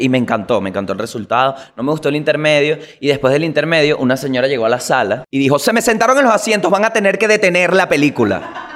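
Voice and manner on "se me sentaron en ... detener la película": high, indignant and demanding, half-laughing; mock the woman demanding they stop the film; whiny outraged moviegoer, hammed up; pushy entitled lady. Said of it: "Con esta actitud".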